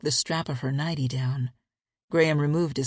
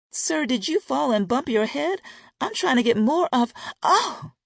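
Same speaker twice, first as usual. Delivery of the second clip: surprised cry; 10 semitones higher, 4 dB louder than usual. Acted. Teasing, cut off by a gasp.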